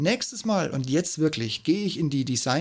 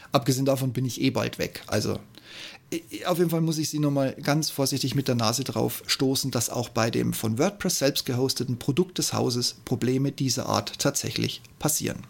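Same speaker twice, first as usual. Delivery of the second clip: rushed, running out of air; ranting without taking a breath; all in one breath. Real, not acted. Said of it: "ich muss Luft holen".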